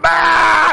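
loud high newborn wail, mimicked; imitated newborn cry. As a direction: belt out a baby's first squall. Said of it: "made some really significant sounds".

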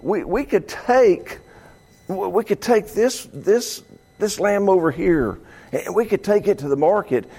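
lightly voiced greedy Israelite, casual and calculating; stingy worshipper. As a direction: act out a penny-pinching offerer, shrugging off God's share. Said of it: "it's like".

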